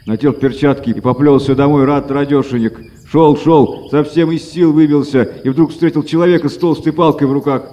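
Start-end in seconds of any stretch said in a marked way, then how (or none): none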